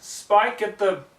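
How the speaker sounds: calling for the assistant from afar. Acted. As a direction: call out to Spike. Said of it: "Twilight called out".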